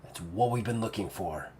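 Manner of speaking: soft, falling, weighty pause before "You"; hushed revelation. Acted. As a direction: let it land quietly. Siggy reveals who he is.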